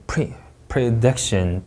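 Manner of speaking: very slow PREDICTION, broken after PRE; drawn-out R demonstration of PREDICTION; R sound. Shown as a demonstration. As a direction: say PREDICTION with a plain R, no L. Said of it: "받침 없는 리을".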